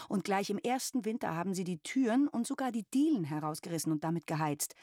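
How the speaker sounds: a touch of scandalised indignation; mother recounting the tenants' misdeeds, indignant. Acted. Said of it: "empörte sie sich".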